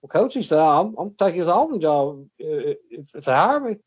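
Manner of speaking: lightly voiced old Southern coach answering politely. Young coach to Bryant, a hint of an old Southern voice. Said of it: "that old Southern voice".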